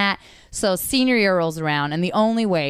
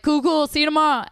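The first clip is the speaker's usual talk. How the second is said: breezy casual; 8 semitones higher, faster than usual. Retold or imitated. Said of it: "And everyone's like".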